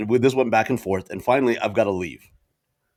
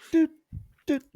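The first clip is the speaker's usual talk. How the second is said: short, evenly spaced "doot" noises; imitated countdown beep; much faster than usual. Friend mimics the Uber countdown, imitated beeps. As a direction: mimic a timer ticking down, with pauses.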